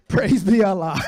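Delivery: comic shouting to the crowd; hammed-up praise. Repeated mock praise, louder.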